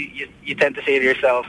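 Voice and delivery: ordinary talk, nothing marked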